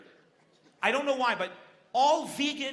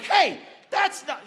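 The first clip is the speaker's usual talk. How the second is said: high, slow, lightly voiced feeble protest; a limp objection with no energy behind it; weak vegan protest; 9 semitones higher, 6 dB louder, slower than usual. Tired vegan in the crowd starting a protest, feeble and drawn out. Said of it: "somebody's like".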